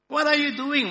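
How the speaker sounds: high, loud, anxious question; nervous cry. A narrator's reading. Cave dweller watching a stranger stack something, nervous cry. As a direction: cry out nervously, pitched right up. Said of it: "one cried nervously".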